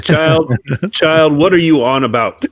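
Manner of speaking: put-on grumpy old man voice. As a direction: scold like a cranky old grandpa. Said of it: "in my, like, grumpy old man voice".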